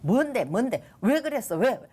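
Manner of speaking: retold volley of urgent questions; rapid-fire questioning. The Lord quizzing her without a break, rapid-fire questioning. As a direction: fire questions one after another, pitch jumping up. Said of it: "다다다다다닥 질문이 이어지는데".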